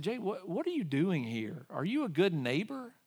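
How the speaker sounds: voice of the Lord. Retold or imitated. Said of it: "the Lord just grabbed my heart and said".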